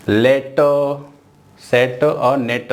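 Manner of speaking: "लेट सेट और नेट" read as a flat list; wrong way to read. Shown as a demonstration. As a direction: demo the wrong reading. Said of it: "ऐसा नहीं पढ़ना है।". (गलत तरीके से "लेट सेट और नेट")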